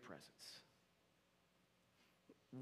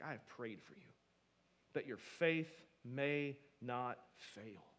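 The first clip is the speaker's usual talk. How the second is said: a hushed, tender reassurance; tender Jesus; 2 semitones lower than usual. Acted. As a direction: speak it gently, as a promise. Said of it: "and he's like".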